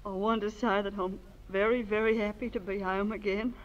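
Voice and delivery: choked up thanking everyone at her welcome home; tearful speech. Acted. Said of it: "I don't know why I'm crying".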